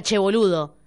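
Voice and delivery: mild mock "Che, boludo"; lightly imitating an Argentine greeting; a hint of Rioplatense "Che, boludo"; Argentine slang. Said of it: "es que diga".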